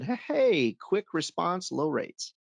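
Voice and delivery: a hint of a radio jingle, high and slowed; sing-song pitchman parody; lightly hammed-up commercial voice; mock ad slogan. Quoting the plumber's ad slogan.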